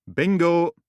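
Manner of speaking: high, loud "Bingo!"; a loud triumphant cry. Acted. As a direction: cheer the find. Finding the photos.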